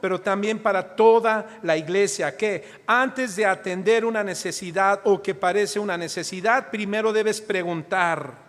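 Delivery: loud, emphatic sermon delivery; fervent preaching. Real, not acted. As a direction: drive the point home to the congregation. Preaching at full force.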